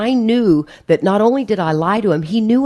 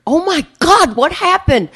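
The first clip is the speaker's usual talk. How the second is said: mock alarm; 9 semitones higher, 3 dB louder than usual. Retold panic after landing.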